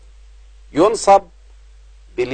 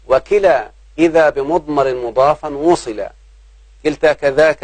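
verse recitation. Shown as a demonstration. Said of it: "عندما قال".

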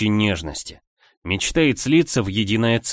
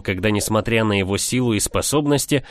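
ordinary delivery, nothing marked

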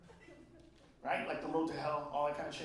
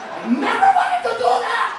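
high, loud yelp of protest; yelling; 10 semitones higher, 6 dB louder than usual. Real, not acted. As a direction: shout it up high, laughing. Comic yelled protest.

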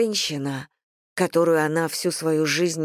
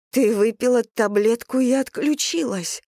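higher, cracking reminder; voice breaking; 5 semitones higher than usual. A narrator's reading. Daughter confronts mother, voice breaking and higher. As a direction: push through a breaking voice. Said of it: "срывающимся голосом напомнила Тиль".

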